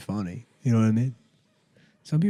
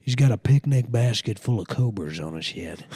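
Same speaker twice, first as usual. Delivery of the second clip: put-on Texas accent. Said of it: "maybe I'll just do a Texas accent".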